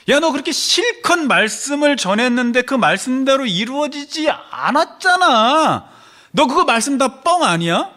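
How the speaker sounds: loud sneering challenge from the crowd; mocking taunt. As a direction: throw the accusation in his face. Mockers taunting the prophet.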